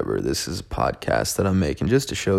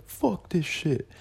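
high, slow mock-furious rant; a raised, drawn-out hammed-up fury; mock rage; 9 semitones higher, slower than usual. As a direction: play the fed-up self who wants to burn it all down. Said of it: "I'll be like".

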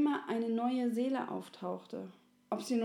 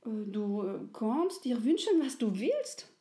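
a small soul tripping over its words with eagerness; little soul; 3 dB louder than usual. Acted.

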